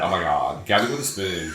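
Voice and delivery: mock eighties Valley-girl accent; eighties Valley talk. Shown as a demonstration. Host demonstrating eighties valley slang, Valley accent. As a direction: do a hammy eighties Valley exclamation. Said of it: "like, eighties valley".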